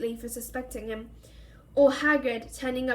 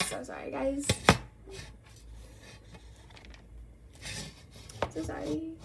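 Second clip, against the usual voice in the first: much softer apology off the reading; quiet aside; 9 dB quieter than usual. Real, not acted. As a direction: drop out of the story to apologize softly. Reader's aside to listeners.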